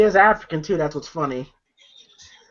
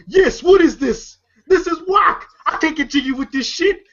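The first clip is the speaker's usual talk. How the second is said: angry customer rant; 6 semitones higher than usual. Retold or imitated. Customer yelling at the store clerk, a mock angry rant.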